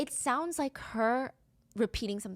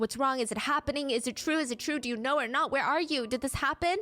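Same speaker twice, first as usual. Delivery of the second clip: nervous friend; 4 semitones higher than usual. Retold or imitated. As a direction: panicky questions, pitched higher. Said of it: "she's screaming, she's nervous".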